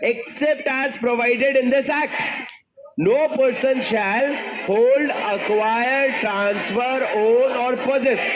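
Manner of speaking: very slow, drawn-out recital of the section; unhurried rote chant; slow recitation. Shown as a demonstration. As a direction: stretch each word for the class to echo.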